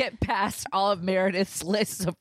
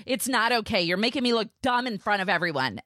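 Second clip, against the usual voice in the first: raised-pitch indignant complaint; retold snapping; 4 semitones higher than usual. Embarrassed wife snaps back at her husband, higher indignant retelling. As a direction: act out losing patience, pitched higher. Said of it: "And I just snapped".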